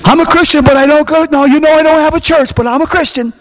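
high, whiny mock voice of an excuse; mocking excuse-maker. Pastor parodying congregants who excuse skipping church, high and whiny. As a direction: parody a sheepish churchless believer.

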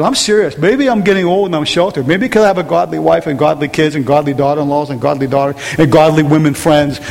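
ordinary talk, nothing marked

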